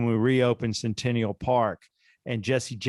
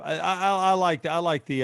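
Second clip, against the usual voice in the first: mock wife voice; 6 semitones higher than usual. Doing impressions, wife voice.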